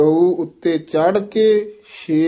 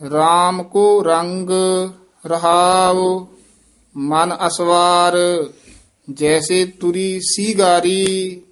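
slow, measured chant with held endings; teacher's deliberate Gurbani reading; scripture recitation; 2 semitones higher, 3 dB louder, slower than usual. Acted. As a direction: intone sacred verse phrase by phrase.

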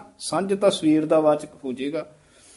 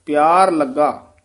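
ਪਿਆਰ ਲੱਗਾ slowly, then rest; pause after laga; 4 dB louder, slower than usual. Shown as a demonstration. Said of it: "ਇੱਥੇ ਵਿਸਰਾਮ ਹੈ".

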